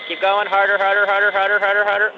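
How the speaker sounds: loud repeated urging; loud coaching. Real, not acted. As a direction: push him on like a coach. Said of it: "Blow as hard as you can".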